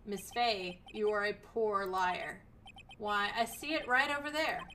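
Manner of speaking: loom over her with calm menace; menacing villain. Acted. Voices the killer.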